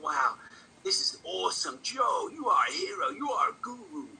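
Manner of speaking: high-pitched, awestruck fan gushing; imitating an overexcited admirer. Acts his awed fan reaction.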